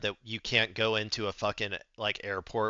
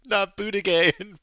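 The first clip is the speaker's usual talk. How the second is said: screaming no over and over, much higher and louder; a loud, high-pitched panicked no; horrified shrieking no; 10 semitones higher, 11 dB louder, slower than usual. Real, not acted. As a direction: shriek in real horror at the idea. Horrified reaction to prophecy clip.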